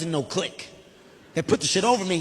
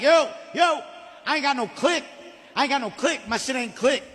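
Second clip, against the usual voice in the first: higher, urgent calling out; retold panicked plea; 5 semitones higher than usual. Rider with no click flags staff down, panicked. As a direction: flag someone down in mock panic.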